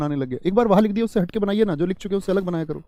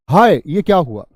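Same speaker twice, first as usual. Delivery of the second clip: दुख; 8 dB louder, slower than usual. Shown as a demonstration. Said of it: "दुख का भाव है".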